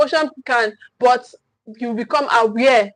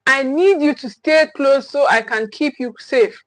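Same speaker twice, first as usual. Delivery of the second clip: steady, gentle and firm; calm firm parent voice. Shown as a demonstration. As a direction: say it calmly, keeping the child safe. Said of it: "It sounds like".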